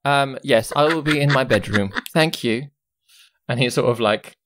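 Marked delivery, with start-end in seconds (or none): 0.0-2.7 lightly voiced haughty boy lord; Lord Oskin, haughty. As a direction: accept service like a little lord.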